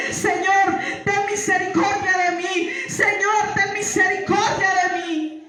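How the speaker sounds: pleading for mercy while falling into darkness; crying out to God. Retold or imitated. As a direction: cry out to the Lord, begging. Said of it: "no paraba de clamarle".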